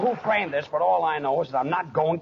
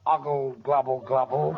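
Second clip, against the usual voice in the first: put-on babbling like a baby; baby talk; 4 semitones lower than usual. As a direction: gurgle it like an infant. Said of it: "you can speak plainer than that".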